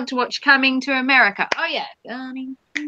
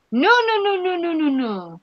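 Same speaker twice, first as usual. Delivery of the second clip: emphatic no; 5 semitones higher than usual. Real, not acted. Rejecting the idea of New York.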